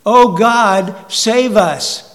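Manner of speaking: loud, pleading cry for rescue; a frightened crowd crying out for God to save them; desperate cry to God. Retold or imitated. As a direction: shout it like people caught in a tornado. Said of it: "people start screaming what?".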